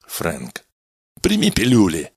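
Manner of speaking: firm, pressing order; insistent. Acted. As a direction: insist he takes them. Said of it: "настойчиво повторил Меллин".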